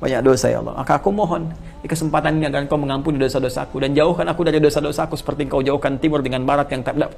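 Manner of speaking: quiet, earnest plea for forgiveness; humble prayer. Acted. Preacher voicing the prayer of repentance, quiet and earnest. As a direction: confess softly, asking mercy.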